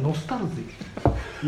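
ノスタルジー stretched slowly and softly; slow drawn-out nostalgia. Shown as a demonstration. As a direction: draw out ノスタルジー. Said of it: "言ったじゃん、ノスタルジー".

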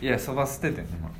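talking while slurping soba; slurping noodles. Pretend. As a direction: mouth full of noodles.

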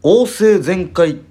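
high, drawn-out hero roll call; sentai hero shout. Pretend. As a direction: announce each name like a sentai hero. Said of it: "名乗り口上を作ってみました".

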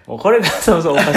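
fast, laughing through words. Real, not acted. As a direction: crack up mid-sentence. Laughs at own absurd premise.

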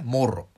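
もろ with a trilled r; rolled r. Shown as a demonstration. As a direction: roll the r in もろ. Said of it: "これは大丈夫".

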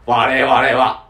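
slow, robotic alien announcement; 我々は火星人だ said very slowly, like a cartoon alien; Martian voice. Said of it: "ドラえもんの発想".

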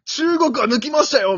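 loud, high triumphant call; triumphant commentator. Retold or imitated. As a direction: crow about passing China. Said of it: "みたいな". (勝ち誇って叫ぶ解説者)

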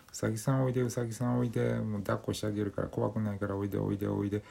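high sweet coaxing voice; sleep talking. Retold or imitated. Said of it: "って言って".

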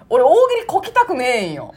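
imitating comedian's complaint. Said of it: "っていう".

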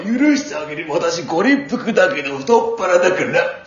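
slangy campy gyaru; japanese gyaru slang. Acted.

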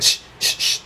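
soft unvoiced shh puffs with each jab; boxer's breath hiss. Partner shadowboxing in the sketch, soft hissed breaths. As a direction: hiss out little punch breaths. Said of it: "ボクシングの人ってようこんな声出す".

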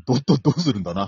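a hint of Hadaka no Taisho, stuttering. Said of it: "裸の大将になってたよ".

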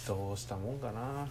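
talking while chewing gum. Real, not acted. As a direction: chew gum noisily between words. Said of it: "くちゃくちゃうるさいの、ガム".

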